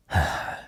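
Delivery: breathy sigh of exasperation; exasperated sigh. Acted. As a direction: let out a weary breath. Exasperated by threat of dart.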